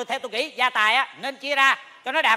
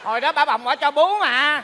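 laughing tease; 2 semitones higher, 4 dB louder than usual. Acted. Laughing joke.

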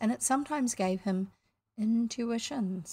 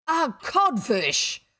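loud, slow, higher stunned echo; blank echo; 4 semitones higher, 6 dB louder, much slower than usual. A narrator's reading. Captain repeats the insult, stunned and blank. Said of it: "Hook echoed blankly".

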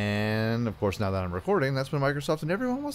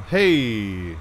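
quick loud call to grab attention; sharp shout; 5 dB louder than usual. Real, not acted. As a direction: bark it out at the animal. Shouting at animal.

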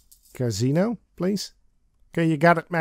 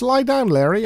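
higher, coaxing woman voice; seductive command; 8 semitones higher, 4 dB louder than usual. A narrator's reading. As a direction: coax him down playfully. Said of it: "She says".

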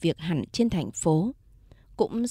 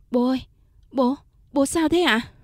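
panicked cry; 5 semitones higher, 4 dB louder than usual. Acted. Daughter reaches dying father.

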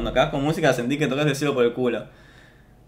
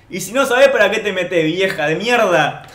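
put-on angry kid retort; 4 semitones higher than usual. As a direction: talk back rudely as a cheeky kid. Kid snaps at old lady in joke. (nene contestando enojado a la señora)

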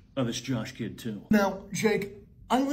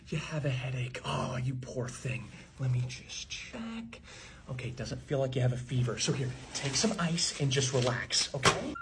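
softer, gentle bedside voice; soft soothing nurse; 3 semitones lower, 5 dB quieter than usual. Acted. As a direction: soothe the kid like a caring nurse. Nurse comforts sick child.

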